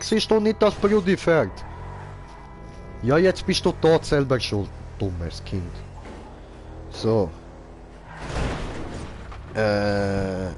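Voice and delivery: usual speaking voice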